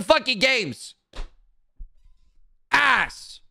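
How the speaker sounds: whiny fed-up rant about sports streaming; angry rant. Real, not acted. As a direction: vent it like a fed-up fan. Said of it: "that was a quick little rant".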